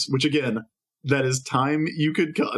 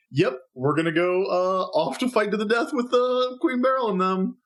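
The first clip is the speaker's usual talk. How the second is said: nonchalant scouts; 5 semitones higher than usual. Retold or imitated. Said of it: "everybody's kind of standing around going like".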